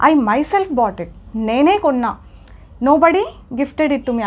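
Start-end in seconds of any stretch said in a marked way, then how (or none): 0.1-1.1 myself lifted and held apart, slow; stress on myself. Shown as a demonstration. Teacher showing students where the emphasis goes, leaning on myself. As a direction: lean on myself, slowly. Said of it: "pronoun పైన stress చేయడానికి".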